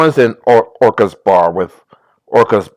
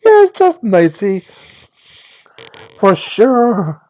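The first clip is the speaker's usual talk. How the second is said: put-on Valley Girl voice. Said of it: "my Valley Girl voice".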